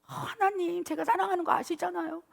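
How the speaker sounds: high-pitched sweet-talking plea; aegyo coaxing. Acted. Preacher demonstrating prayer to God for the congregation, high coaxing aegyo. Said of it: "하나님한테 애교 좀 부려보십시오".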